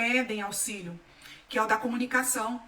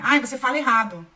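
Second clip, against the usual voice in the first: retold jab, louder; mock correction; 7 dB louder than usual. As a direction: imitate a critic cutting in loudly. Acting out a mocking correction.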